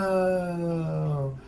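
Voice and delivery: long drawn-out whoa of wonder; astonished. Acted. Little one amazed by the rescuer, drawn-out astonishment. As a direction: stretch it out in awe. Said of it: "is immediately astonished by you".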